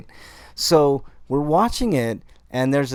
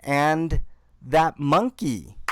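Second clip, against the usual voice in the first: high, slow mock of an excited mom; lightly voiced mom pointing out the monkey; mom's line; 8 semitones higher, slower than usual. Son imitating his mom spotting Chewbacca, high and slow. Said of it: "She goes".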